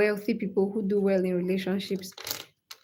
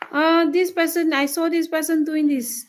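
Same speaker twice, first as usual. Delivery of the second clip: higher-pitched mock complaint; mock nagging wife; 6 semitones higher than usual. Streamer imitating a wife pestering her husband, higher mock nagging.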